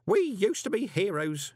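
put-on high, slow, emotional old postman; tearful pride. A narrator's reading. Grote recalls when postmen were heroes, tearfully proud. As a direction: remember lost glory through rising tears. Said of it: "Tears were beginning to roll down".

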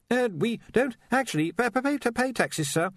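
high, stammering, anxious voice; nervous young wizard. Acted. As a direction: stumble over the words nervously.

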